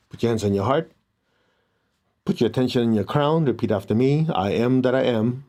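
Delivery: calm meditation guide voice; guided meditation. Acted. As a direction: lead them inward, gently. Leads a meditation.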